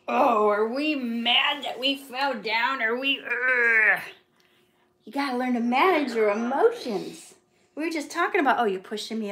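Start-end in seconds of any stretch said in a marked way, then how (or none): 0.1-4.0 slow cooing parent talk. Real, not acted. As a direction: gently tease a grumpy little one, stretching words. Teasing upset toddler about falling.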